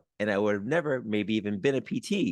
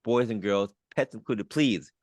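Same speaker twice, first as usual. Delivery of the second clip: emcee announcement. Acted. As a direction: boom it out like a show host. Host announces guest like emcee.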